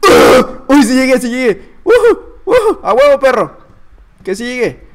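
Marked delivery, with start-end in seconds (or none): 0.1-0.6 short, high gaming scream; loud scream. Real, not acted. Player making a risky jump, loud scream. 0.7-3.6 loud, high whooping celebration; elated cheering. Real, not acted. Player landing a jump, loud elated cheer.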